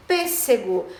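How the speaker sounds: "pêssego" as one word, PÊ strongest; "pêssego" with a clear strong PÊ; stress on PÊ. Shown as a demonstration. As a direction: lean on the first syllable of "pêssego". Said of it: "Da sílaba tônica P".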